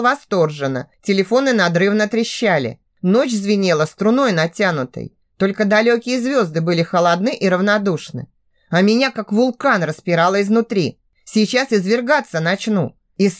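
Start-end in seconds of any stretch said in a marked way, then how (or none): none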